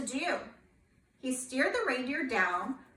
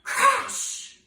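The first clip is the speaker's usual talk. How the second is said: crash sound; 13 semitones higher, 8 dB louder than usual. Acted. Sleigh hits tall tree.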